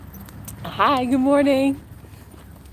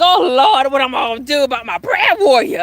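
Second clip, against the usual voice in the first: louder, higher lament of a preacher; mock grieving pastor; 3 semitones higher, 5 dB louder than usual. Pastor breaking down at the eulogy, hammed-up loud lament. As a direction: wail to the Lord like a grieving pastor. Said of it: "The pastor was like".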